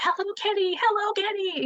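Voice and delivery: shrill, scratchy, very high shriek. Recalling her spotting Hello Kitty across Target, imitating high scratchy screaming. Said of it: "high pitched kind of scratchy voice screaming".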